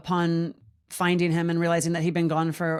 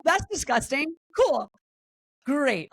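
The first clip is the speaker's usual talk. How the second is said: sarcastic deadpan; 8 semitones higher than usual. Retold or imitated. Sarcastic reaction to rash.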